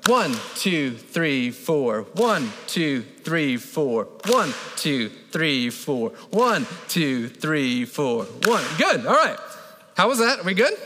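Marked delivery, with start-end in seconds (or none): 0.1-8.6 steady cadence. Shown as a demonstration. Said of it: "Here we go".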